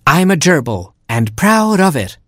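high, defiant little shout; proud cry. A narrator's reading. Gerbil proudly standing up to the porcupine. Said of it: "cried Gerbil".

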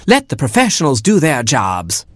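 a hint of a fussy hen; Mama Hen. A narrator's reading. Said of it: "said Mama Hen".

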